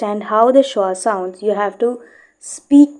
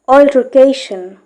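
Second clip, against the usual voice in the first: "Altercation" with lighter stress on "Al", stronger on "ca"; al-ter-CAY-shun for "Altercation", as a model; teaching syllable stress. Shown as a demonstration. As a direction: repeat "Altercation" carefully, leaning on "ca". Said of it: "a little below stress right here".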